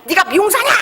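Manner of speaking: indignant mock challenge, thrown out high; scolding customer. Angry customer challenging the unlicensed hairdresser, scornful scolding. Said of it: "저한테 욕하고 막 머리 감고 막 욕하고".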